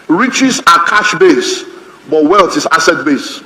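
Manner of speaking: very slow, weighty contrast; slow emphasis. Shown as a demonstration. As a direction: drop each word in slowly to make it stick. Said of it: "teaching contrast".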